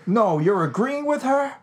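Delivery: high, slow disbelief; surprised. Real, not acted. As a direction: ask it in shocked disbelief. Surprised at co-host.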